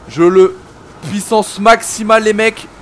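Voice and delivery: streamer unleashing maximum power on the guys, loud and excited; hyped attack call. Real, not acted. Streamer warns viewers the enemies aren't ready, hyped and loud.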